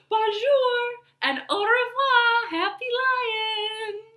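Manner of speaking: high, bright sing-song bonjour; cheerful greeting. Acted. Zookeeper's son greets the lion in a high cheery voice.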